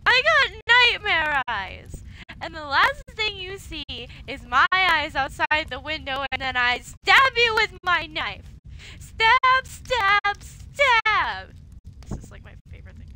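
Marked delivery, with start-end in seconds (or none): 0.1-8.5 put-on drunken rant. Drunk May ranting about nightmare eyes. 9.0-11.5 stabbing yells. Acted. Drunk May acting out stabbing.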